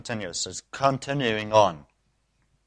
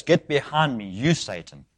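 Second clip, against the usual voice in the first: aim it straight at the person; pointed rebuke; 4 dB quieter than usual. Shown as a demonstration. Jesus naming Peter as Satan, pointed rebuke. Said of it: "You can say it like this".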